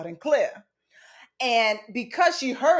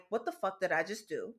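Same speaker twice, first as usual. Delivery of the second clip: stunned under breath; 3 semitones lower, 10 dB quieter than usual. Retold or imitated. Shocked after slapping aunt.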